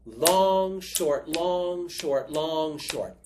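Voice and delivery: long short said as a beat; spoken rhythm. Shown as a demonstration. Teacher spelling out the right long short rhythm. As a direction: mark long and short in time. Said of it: "It's long, short".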